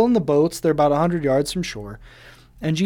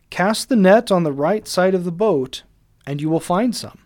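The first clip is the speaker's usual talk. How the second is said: a touch louder, firm instruction across the water; calling out; 3 semitones higher, 3 dB louder than usual. Retold or imitated. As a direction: call the order to the boat. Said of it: "He calls out".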